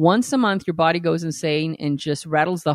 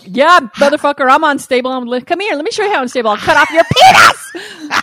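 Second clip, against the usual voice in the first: louder and higher, building to a shouted threat; mock fury; 7 semitones higher, 6 dB louder than usual. Woman answering a dumb boyfriend with mock menacing fury. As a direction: ham up a raging comeback.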